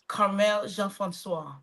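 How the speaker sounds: "Carmel Jean-Francois" carefully echoed with French nasal vowels; accented name pronunciation. Shown as a demonstration. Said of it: "your little accent, Miss Nancy".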